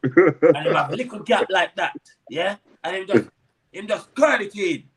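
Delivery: put-on light Jamaican accent, dad's voice; imitating a Jamaican dad's accent. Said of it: "in his Jamaican accent".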